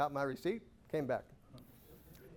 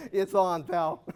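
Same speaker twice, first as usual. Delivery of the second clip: mock challenge; 3 semitones higher, 8 dB louder, slower than usual.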